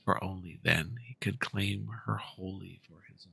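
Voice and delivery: storybook telling, calm and even; story narration. A narrator's reading. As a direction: spin it like an old legend. Makes up a new story.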